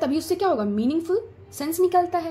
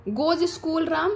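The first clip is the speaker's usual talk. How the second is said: jumbled order, slow; 4 semitones higher, much slower than usual. Shown as a demonstration. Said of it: "अभी इसी को हम बोले".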